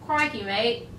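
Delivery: quick mock-Australian catchphrase; put-on Australian accent. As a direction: toss out a stereotyped Australian accent. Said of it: "It's easy to sound Australian".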